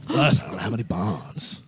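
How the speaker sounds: slow, lightly voiced copy of the Tim Dillon line; a weak attempt at the Tim Dillon voice; bad Tim Dillon impression. Guest botches the Tim Dillon bit, slow and flat. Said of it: "That's terrible".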